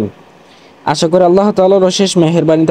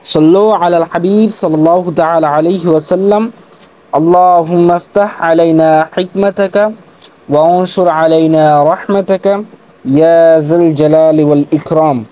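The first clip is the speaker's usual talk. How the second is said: recited durood. Acted. Leads recited prayer, durood.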